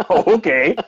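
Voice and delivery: chuckling through it; amused little okay; laughing okay. Retold or imitated. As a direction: say it while laughing. Laughing reply to coworker.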